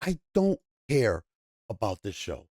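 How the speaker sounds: low, tired-of-it indifference; apathetic. Real, not acted. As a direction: shrug it off, voice dropping away. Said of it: "there's just a lot of apathy".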